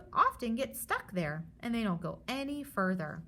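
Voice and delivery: lively storybook read for a class; reading to children. Acted. Teacher reads the germs book aloud to her students. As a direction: read it like a picture book to kids.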